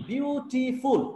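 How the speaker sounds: বিউটিফুল slowly broken into bi-u-ti-ful; বিউটিফুল drawn out in separate syllables for counting. Shown as a demonstration. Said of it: "তিনটা syllable আছে".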